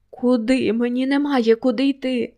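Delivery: despairing outburst, pitch rising; cried out. Acted. Lilia shouting at Max that she has nowhere to go, despairing. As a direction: throw the hopelessness back at him. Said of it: "закричала вона".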